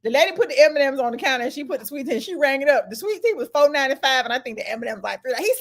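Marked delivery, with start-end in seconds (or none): none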